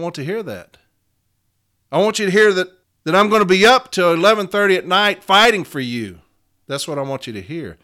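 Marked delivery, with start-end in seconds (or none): none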